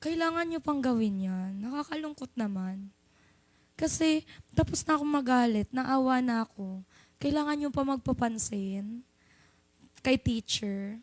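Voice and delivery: soft, hushed and disappointed; hushed teacher guilting students; quiet sad reproach. Retold or imitated. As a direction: let the class feel your pity. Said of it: "Sabi niya".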